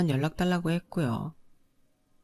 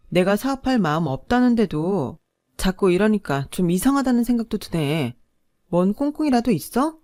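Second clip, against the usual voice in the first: louder, pointed, rising suspicion; suspicious confrontation; 4 semitones higher, 5 dB louder than usual. Acted. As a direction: corner him and demand answers. Wife confronts husband about land.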